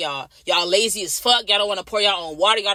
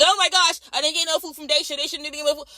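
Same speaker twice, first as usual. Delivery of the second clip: higher pitched, whining complaint about missed food; whiny patient; 7 semitones higher than usual. Retold or imitated. Patient complaining to night nurse, whiny and higher. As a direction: mimic a needy patient griping.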